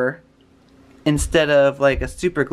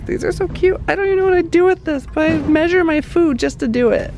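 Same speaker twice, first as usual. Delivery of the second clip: much higher, louder, fast gushing; 13 semitones higher, 4 dB louder, faster than usual. Real, not acted. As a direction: squeal over cute things. Gushing over cute decor.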